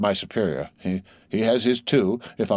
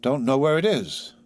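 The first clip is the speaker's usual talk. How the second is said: sulky and sleepy; 6 semitones higher than usual. A narrator's reading. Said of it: "all sulky and sleepy".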